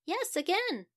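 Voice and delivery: a frazzled mum ringing for help; fretful Mamma Monkey. Acted.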